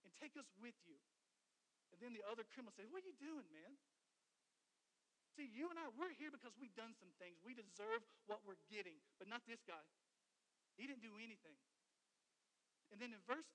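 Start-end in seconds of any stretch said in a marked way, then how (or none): 0.0-1.0 imitated criminal's taunt, starting loud and easing off; preacher acting out a jeering convict; mocking. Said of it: "begins to mock him". 2.9-11.6 preacher voicing a remonstrating criminal; acted rebuke.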